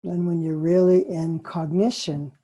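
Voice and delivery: spacious meditation pacing with long pauses; guided meditation. Acted.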